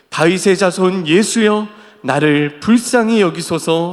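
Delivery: loud, slow congregational reading; scripture read aloud. A narrator's reading. Preacher leading the congregation through Bartimaeus's plea, loud measured reading. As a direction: read the cry out firmly and slowly. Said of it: "소리 질러 이르되".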